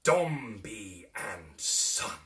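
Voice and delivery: loud, slow, stately proclamation; proud father naming his heir; pompous declaration. A narrator's reading. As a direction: announce the family firm like a decree. Dombey declaring the firm's name.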